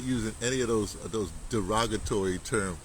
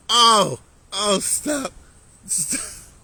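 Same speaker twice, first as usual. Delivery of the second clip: laughing fit; 9 semitones higher, 7 dB louder, much slower than usual. Real, not acted. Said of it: "I'm having too much fun with it".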